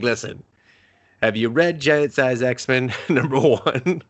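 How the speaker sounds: slow mock Russian accent; Colossus. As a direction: do a badly faked Russian accent. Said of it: "doing their best Colossus".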